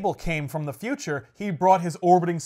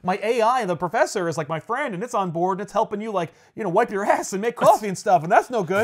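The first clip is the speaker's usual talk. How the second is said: upset whining; 4 semitones higher, 3 dB louder than usual. Retold or imitated. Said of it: "Cable's super upset because, like".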